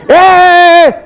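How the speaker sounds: high loud shout, hammed-up; mock angry yell. Preacher imitating the yeller's final outburst, mock shout. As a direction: burst out at him in fake fury. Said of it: "mock shouter's outburst".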